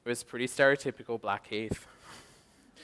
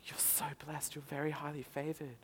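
whispered prophecy, soft and secret; mystical whisper; 3 semitones higher, 14 dB quieter than usual. Retold or imitated. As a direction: hush it like a psychic revealing fate. Psychic's hushed prophecy.

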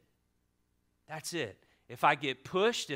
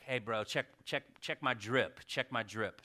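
imitating young people; 7 semitones lower, 7 dB quieter than usual. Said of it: "they're like".

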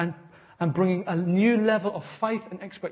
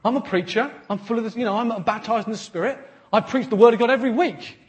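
indignant preacher; 4 semitones higher, 5 dB louder than usual. Retold or imitated. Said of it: "he was like".

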